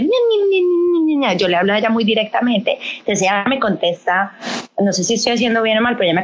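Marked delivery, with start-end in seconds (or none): 0.0-1.4 mock the cutesy baby talk. Shown as a demonstration. Mom showing the baby talk she never uses, high cooing. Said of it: "nunca he sido de".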